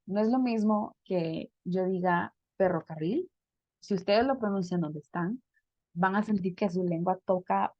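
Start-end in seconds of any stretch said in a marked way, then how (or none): 2.6-3.3 ferrocarril with a strongly rolled trilled R; rolled Spanish R. Shown as a demonstration. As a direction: roll the R hard in ferrocarril, tongue tapping the palate. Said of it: "les voy a dar un ejemplo". (ferrocarril con la erre bien vibrada)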